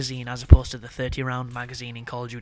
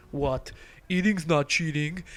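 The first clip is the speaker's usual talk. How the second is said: light imitation of an Austrian accent, a touch higher at the end; 3 semitones higher than usual. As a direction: toss off the quote in a mock Austrian accent. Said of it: "in his fucking Austrian accent".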